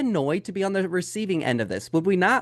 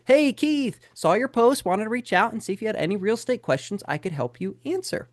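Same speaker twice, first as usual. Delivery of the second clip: salesy agent message; 3 semitones higher than usual. Retold or imitated. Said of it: "probably something like this".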